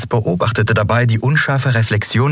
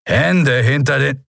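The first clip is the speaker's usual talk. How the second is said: slow, higher-pitched order; commanding guard; 5 semitones higher, slower than usual. Acted. Guard ordering a captive's hands up, slow and commanding.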